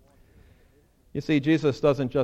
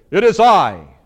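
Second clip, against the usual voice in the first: proper English; 4 semitones higher, 12 dB louder than usual. Retold or imitated. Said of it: "do better at English".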